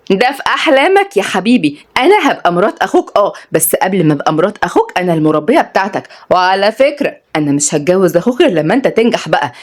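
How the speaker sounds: lightly voiced, playful and firm; teasing young woman.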